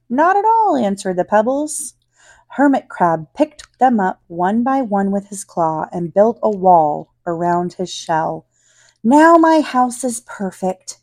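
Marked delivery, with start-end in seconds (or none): 0.1-0.8 squeaky high little pebbles. Acted. The pebbles answer in the story. 9.0-11.0 higher, louder happy cheer. Acted. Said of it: "cheered Hermit Crab".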